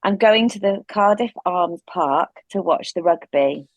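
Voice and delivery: neutral English reading; plain English accent. Shown as a demonstration. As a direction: say it evenly in English, no Welsh. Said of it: "say them in an English accent".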